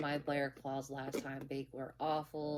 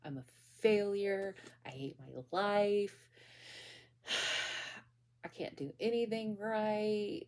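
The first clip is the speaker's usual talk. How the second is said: mock bawling; 3 semitones higher than usual. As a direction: lightly act out bawling in despair, with a sigh. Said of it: "bawl out. I'm like".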